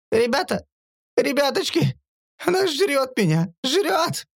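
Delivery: high, panicked pleading; panicked cries. Acted. Lanzi begs his comrades as a beast eats him, panicked and high. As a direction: cry out in terror.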